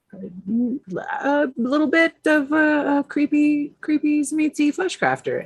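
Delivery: a high, slow creepy creature voice; creepy character voice. Acted. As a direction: drawl it out like something unsettling. Introducing her creepy character.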